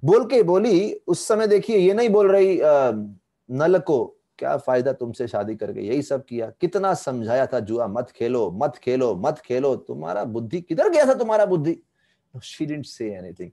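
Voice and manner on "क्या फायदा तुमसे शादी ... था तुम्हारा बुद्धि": hypothetical wife's telling-off; imagined scolding. Pretend. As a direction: scold an errant husband, pressing the repeated warning. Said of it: "डांटने की जरूरत नहीं है".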